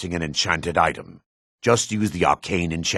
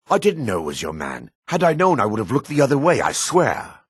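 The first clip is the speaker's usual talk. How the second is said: fearful pleading; 6 semitones higher than usual. Acted. Pleading with Maven after offending.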